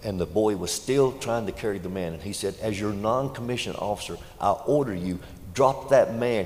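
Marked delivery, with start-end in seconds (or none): 2.6-6.4 shouted order. Retold or imitated. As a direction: pull rank and yell the command. Sergeant pulls rank, shouts order.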